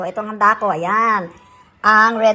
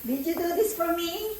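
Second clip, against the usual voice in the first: feigned surprise; 10 semitones higher, 14 dB quieter than usual. Pretend. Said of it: "Kunwari, hindi ko alam".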